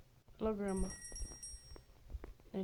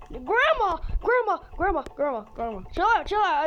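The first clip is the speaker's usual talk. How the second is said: calling out; 3 semitones higher than usual. Real, not acted. Boy chased by grandma, yelling at her. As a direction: yell for her to back off.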